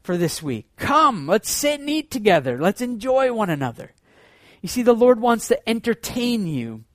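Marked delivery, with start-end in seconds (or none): 0.0-3.9 God's invitation. Retold or imitated. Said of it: "at the cupboard saying".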